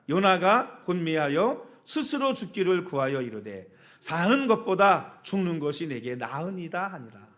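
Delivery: measured, unhurried Bible reading pace; slow scripture reading. Shown as a demonstration. Pastor to congregation, reading the verse aloud slowly. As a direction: read the verse slowly and deliberately. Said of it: "거기부터 시작".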